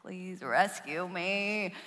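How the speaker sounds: slow, drawn-out plea of Please rescue me; pleading. Retold or imitated. Teen mouthing to mom to save her from a caller, slow. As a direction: beg your mom with a long-suffering sigh. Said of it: "rolling my eyes, like".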